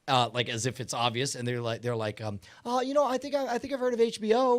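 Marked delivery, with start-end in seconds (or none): 2.7-4.6 smug hotel clerk. Retold or imitated. Mocking hotel staff, smug quote.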